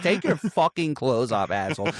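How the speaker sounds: imitating a fed-up robber; sexy act dropped. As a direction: drop the seduction and just demand it. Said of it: "loses the sexy accent".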